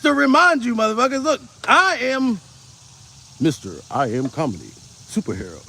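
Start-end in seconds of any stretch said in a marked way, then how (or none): 3.4-5.6 low, soft booming hero-title voice; mock trailer-voice self-introduction; deep superhero announcer. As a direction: announce yourself like a movie superhero, much lower.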